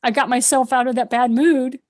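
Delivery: bursts out high and loud, then settles; realizing in bed that the memory lifted her mood; sudden realization. Retold or imitated. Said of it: "and I realized".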